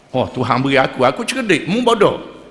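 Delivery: lightly mocking a smug boaster; mock the arrogant man saying it; a hint of smug bragging; boastful fool. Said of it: "Kata orang bodoh".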